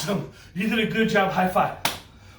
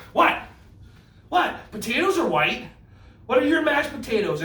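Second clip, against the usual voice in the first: mock disbelief; 8 semitones higher than usual. Mock shock at own lyric.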